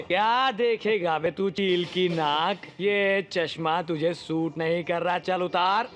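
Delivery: slow, insolent mockery; drawn-out taunt. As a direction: stretch the words out to needle him. Taunts the man about his glasses. (धीरे-धीरे खींचकर ताना मारते हुए)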